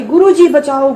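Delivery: ज़ोर से पुकार, मदद के लिए चीख; पूरी आवाज़ में गुरु जी को पुकारना; crying for help. Retold or imitated. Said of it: "गुरु जी ने पूरी आवाज निकलवाई". (सपने में डर से गुरु जी को ज़ोर से पुकारना)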